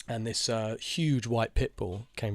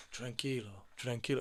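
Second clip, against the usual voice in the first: imitating casual owner; 9 dB quieter than usual. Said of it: "he's going".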